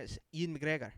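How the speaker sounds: Ewan said like "Ian", Scottish style; Scottish accent. Retold or imitated. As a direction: introduce yourself in a light Scottish accent. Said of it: "he would say his name".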